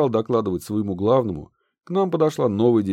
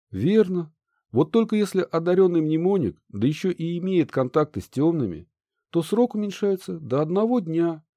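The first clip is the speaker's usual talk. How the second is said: higher, almost genuine sympathy; sympathetic; 7 semitones higher than usual. Acted. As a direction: feign real sympathy. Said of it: "почти с натуральным сочувствием произнёс инквизитор".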